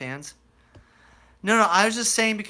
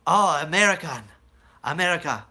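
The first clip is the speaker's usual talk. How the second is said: loud, eager mock foreign voice; imitating Georgian men; 4 semitones higher, 7 dB louder than usual. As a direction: ham up the excited locals greeting Americans. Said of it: "they'd be like".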